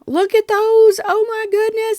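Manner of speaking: high delighted squeal; excited squeal. Real, not acted. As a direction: squeal over something adorable. Delighted showing finished blocks.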